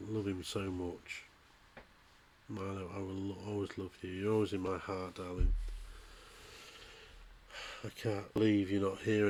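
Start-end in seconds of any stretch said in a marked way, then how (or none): 0.1-5.5 hushed and tender, barely holding together; tender farewell. Real, not acted. Owner speaks softly to dead dog.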